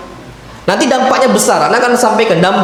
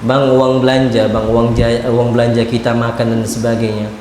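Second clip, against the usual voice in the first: wife asking for money; 12 semitones lower than usual. Retold or imitated. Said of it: "Awal bulan dicari".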